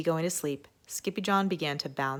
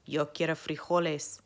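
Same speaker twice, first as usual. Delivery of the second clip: somber declaration. Acted. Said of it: "in his most somber voice declared".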